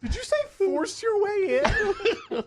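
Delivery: high, loud, slow challenge; incredulous guard. Acted. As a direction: question them as a dumbfounded guard, amused. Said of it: "Finally, one of them goes".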